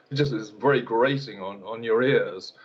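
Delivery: ordinary delivery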